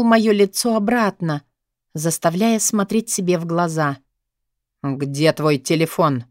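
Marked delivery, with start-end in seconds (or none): 4.8-6.2 lower, slow authoritative demand; commanding question. A narrator's reading. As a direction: interrogate her with slow, low authority. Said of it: "Последовал ещё один властный вопрос". (властно, низко и медленно)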